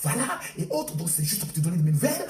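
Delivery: a low, lazy put-on slang voice. Mocking a migrant daughter phoning her mother, low and lazy. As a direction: sneer through it like a spoiled migrant.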